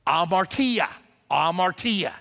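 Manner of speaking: "amartia" sounded out as ah-mar-TEE-ah; careful pronunciation. Shown as a demonstration. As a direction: say "amartia" clearly, stress on the TEE. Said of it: "is pronounced amartia".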